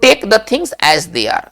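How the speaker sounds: each English word spaced out very slowly; slow dictation. Shown as a demonstration. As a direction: spell it out slowly for the class to repeat. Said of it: "अंग्रेजी में कैसे कहेंगे".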